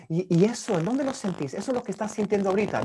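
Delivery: rushed, matter-of-fact probing; hurried checklist asking; quick flat questions. Shown as a demonstration. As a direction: rattle the questions off fast. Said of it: "es muy diferente decir".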